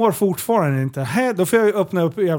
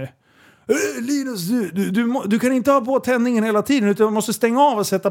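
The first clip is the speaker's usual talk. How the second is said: lightly imitated caller, higher-pitched; halting start, then a quicker higher lecture; Tony; 5 semitones higher than usual. Friend phoning with advice, lightly imitated higher voice. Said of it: "Exakt då ringer Tony".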